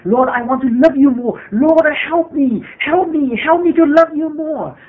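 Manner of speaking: desperate pleading prayer. Retold or imitated. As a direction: plead with God, climbing as despair grows. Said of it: "She was so frustrated".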